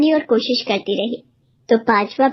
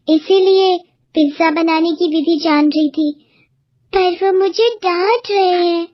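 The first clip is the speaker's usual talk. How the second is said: lightly voiced young girl, a bit higher; a girl pouring out her worries, slightly raised pitch; young girl, troubled; 4 semitones higher than usual. (ہلکی سی اونچی آواز میں پریشان لڑکی)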